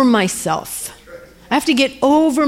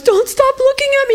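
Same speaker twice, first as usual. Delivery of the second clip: very high, wailing cry; imitated frantic old woman. Old woman suddenly crying out at the praying stranger, frantic plea. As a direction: cry out high, easing down by the end.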